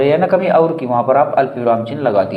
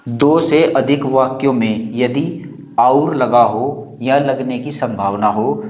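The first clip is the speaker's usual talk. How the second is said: slow dictation; slower than usual. Shown as a demonstration. Teacher dictating a grammar rule.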